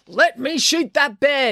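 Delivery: high, drawn-out, pleading yell. A narrator reads an officer's line amid a commotion over a bear, yelling. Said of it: "yelled Officer Odinson".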